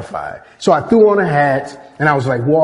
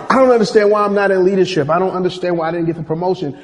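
whiny complainer; 4 semitones higher, 3 dB louder, faster than usual. Retold or imitated. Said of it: "on my team who are angry".

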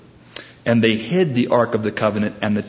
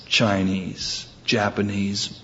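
dismissive; 2 semitones lower, 5 dB quieter, slower than usual. Acted. Joke attacker shrugs off the protest.

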